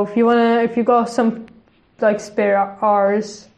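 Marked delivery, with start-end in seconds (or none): 2.2-3.5 "hours" drawn out into a long piratey "arr"; oddly said "hours". Real, not acted. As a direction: stretch "hours" slowly, heavy on the r. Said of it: "why did I say that so weird".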